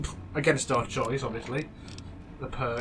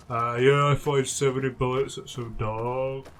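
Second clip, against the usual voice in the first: mock Boone voice; 4 dB louder, slower than usual. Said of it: "It doesn't speak like that".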